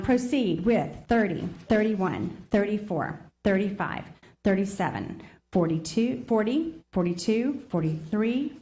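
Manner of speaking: deliberately slowed reading of "proceed with thirty". Shown as a demonstration. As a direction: take "proceed with thirty" slowly so each number lands. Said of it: "I will read it slower".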